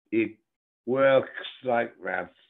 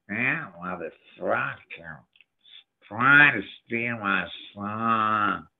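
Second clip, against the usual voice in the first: put-on slow, thick New York accent; slower than usual. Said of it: "Johnny's real thick New York accent".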